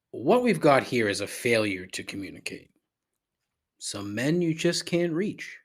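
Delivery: hushed movie-captain quote; quoting a stern prison captain in a hush. Retold or imitated. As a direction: deliver it like the warden in an old film. Quoting Cool Hand Luke captain.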